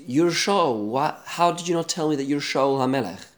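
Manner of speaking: the woman shrieks out who he is; retold scream. Medium shrieks at the disguised king in mock alarm. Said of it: "she screams out".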